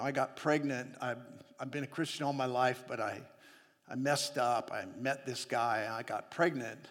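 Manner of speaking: put-on soft confessing girl; quiet, hesitant plea; lightly voiced young woman. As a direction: pregnant girl asking the pastor's wife, softly. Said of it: "came back and said".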